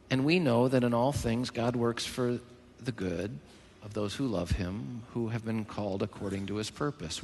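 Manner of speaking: soft, low, measured scripture recital; verse recital. Real, not acted. Preacher rehearsing Paul's verse for the church, soft recital. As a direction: recite the verse quietly and evenly.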